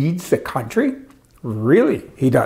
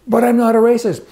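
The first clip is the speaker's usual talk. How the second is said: higher, sing-song mocking of the stock phrase; mocking preamble; 9 semitones higher, 5 dB louder than usual. Mocking what everyone must say first, in a higher sing-song voice. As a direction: parody everyone's disclaimer, pitched up. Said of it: "We all have to start our sentences with that preamble".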